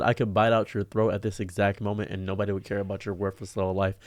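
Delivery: calm threat. Retold or imitated. Man retelling his reply to rude woman, calm. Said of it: "a very calm response".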